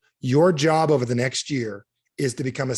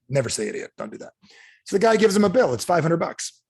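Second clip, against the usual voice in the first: ordinary talk, nothing marked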